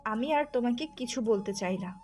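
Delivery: jealous, hurt dismissal in short bursts; wronged wife lashing out; angry rejection. Acted. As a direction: send him away with angry scorn. Jealous wife rejecting her husband.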